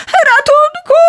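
very high, loud desperate cry; cry for help. A narrator's reading. Falling Ikar cries to his father for help, loud and very high. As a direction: scream for help as you fall. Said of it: "zawołał Ikar".

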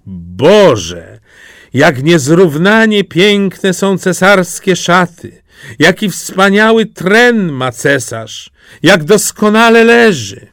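high, loud, slow amazement; crowd exclaiming. Acted. Street crowd praises the emperor's clothes, high and loud. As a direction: cry out in feigned wonder. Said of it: "ludzie na ulicy i w oknach mówili".

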